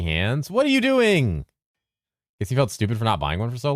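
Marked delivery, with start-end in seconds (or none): 0.5-1.4 squeaky high voice. Acted. Squeaky exclaimed question.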